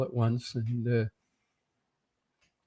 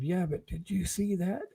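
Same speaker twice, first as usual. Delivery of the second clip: softer, whispered insistence; insistent whisper; 7 semitones higher, 8 dB quieter than usual. Retold or imitated. Hushed by bandmates, he insists in a softer whisper. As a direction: press the question under your breath.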